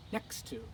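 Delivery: "next to" with the weight on "next"; stress on next. Shown as a demonstration. Teacher modelling for learners, stress on "next" in "next to". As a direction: lean on "next", let "to" fall away. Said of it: "Emphasis on the next".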